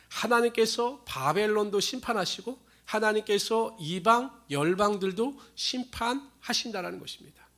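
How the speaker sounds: ordinary talk, nothing marked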